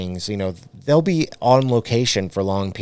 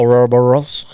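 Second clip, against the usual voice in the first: surprised; 3 semitones higher, 7 dB louder, faster than usual. Real, not acted. Surprised echo of friend's claim.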